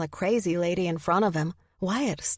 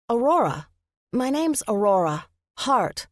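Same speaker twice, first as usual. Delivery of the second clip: flustered insistence; 5 semitones higher, 4 dB louder than usual. A narrator's reading. Flustered woman insisting on her name.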